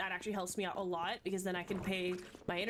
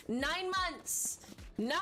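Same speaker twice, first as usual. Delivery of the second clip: gamer rage; 6 semitones higher, much slower than usual. Real, not acted. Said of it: "my two moments of gamer rage".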